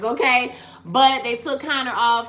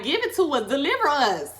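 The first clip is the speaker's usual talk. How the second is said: excited cheering; 8 semitones higher, 6 dB louder than usual. Retold or imitated. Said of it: "I was like".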